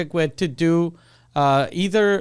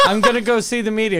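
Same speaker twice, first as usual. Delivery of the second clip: laughing; 5 semitones higher, much faster than usual. Retold or imitated. Retelling threat while laughing.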